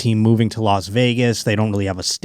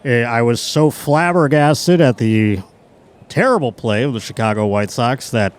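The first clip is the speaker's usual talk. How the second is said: mock on-air apology. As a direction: apologize like a sheepish broadcaster. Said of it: "He'd have to come on the air and be like".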